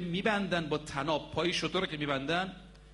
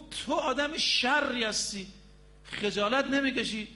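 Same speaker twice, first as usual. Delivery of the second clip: higher-pitched, slow mock reproach; raised-pitch telling-off, only mildly angry; retold angry scolding; 5 semitones higher than usual. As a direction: scold like a preacher retelling an angry rebuke. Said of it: "عصبانی شد".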